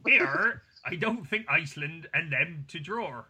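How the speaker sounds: lightly put-on imitation of a friend; Tommy. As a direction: read the friend's message in mimicry. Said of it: "Now Tommy comes in".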